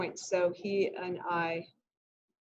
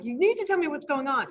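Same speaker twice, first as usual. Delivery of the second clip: insistent retold demand; 5 semitones higher than usual. Urging whispering student to speak up.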